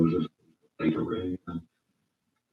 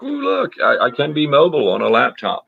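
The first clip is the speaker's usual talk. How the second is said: mock gushing; 5 semitones higher, 5 dB louder than usual. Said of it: "having to be like".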